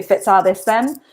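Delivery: "Fit's all this then?" with a Doric F for the WH; Doric phrase. Shown as a demonstration. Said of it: "so you say".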